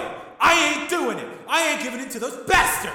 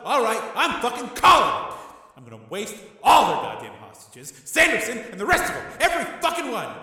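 loud, much higher raging tirade; enraged tirade; 11 semitones higher, 8 dB louder than usual. A narrator's reading. Tommy raging at his brother, loud tirade. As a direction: rage at everyone.

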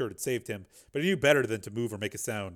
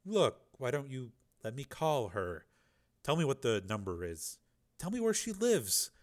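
soothing. Acted. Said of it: "said Borodini soothingly".

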